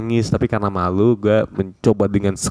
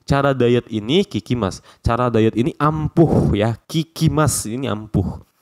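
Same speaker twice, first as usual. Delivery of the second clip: lightly voiced woman praising a diet; gently feminine testimonial; mild woman's voice; 3 semitones higher than usual. Teacher voicing a woman's diet testimonial. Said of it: "Ini harusnya perempuan yang ngomongnya".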